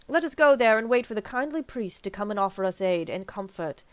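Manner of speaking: lightly voiced, formal British-ish ally; hint of a sly knight; Thancred voice. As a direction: read it like a noble schemer. Voicing Thancred reading dialogue.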